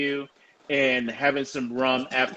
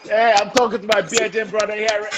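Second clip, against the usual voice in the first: playful enthusiasm; 6 semitones higher, 3 dB louder than usual. Pretend. Trying out the new word.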